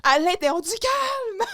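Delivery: high, drawn-out mimicked yelling; mock outburst. Co-host replaying the boss's plea for calm, mock shouting. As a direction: stretch each word in a high parody shout.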